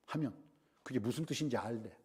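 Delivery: ordinary delivery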